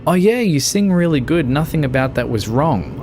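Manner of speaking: high, gushing empty compliment; butter them up insincerely; fake flattering praise. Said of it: "I don't want you to say".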